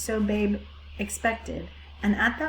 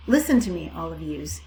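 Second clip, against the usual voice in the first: raised voice; 3 semitones lower than usual. Acted. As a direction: raise your voice to the flock. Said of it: "Raising her voice".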